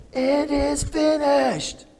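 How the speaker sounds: high, slow proclaiming cry; bold exclamation. Acted. Preacher voicing Jesus on the cross, bold slow cry. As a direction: proclaim it boldly, drawn out. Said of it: "So Jesus exclaimed".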